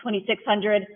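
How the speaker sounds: rhythmic auctioneer chant, numbers rolled out; auction bid calling. Acted. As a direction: call the bids like an auctioneer.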